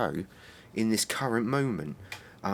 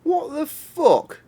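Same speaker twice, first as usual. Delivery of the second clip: high, drawn-out disbelieving cry; stunned outburst; 7 dB louder, much slower than usual. Real, not acted. Gamer baffled by the screen, slow shocked cry. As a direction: stretch it out in shock. Sudden outburst after long silence.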